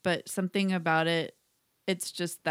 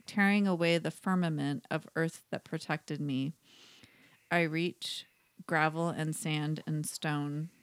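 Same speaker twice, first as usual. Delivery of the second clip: poem reading. Acted. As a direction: read the poem with weight and pauses. Reads her poem aloud.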